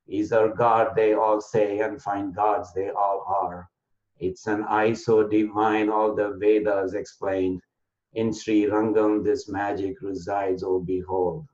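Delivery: slow, metrical verse reading; unhurried, even beat on every third syllable; anapest poem recital. Shown as a demonstration. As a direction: recite it as measured poetry to the close. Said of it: "in a poetic form".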